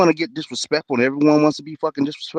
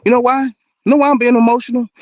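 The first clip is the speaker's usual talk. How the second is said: high, loud and heated; rising into a heated shout; angry outburst; 11 semitones higher, 5 dB louder than usual. Real, not acted. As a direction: fire it back at him, indignant. Heated debate, answering an accusation.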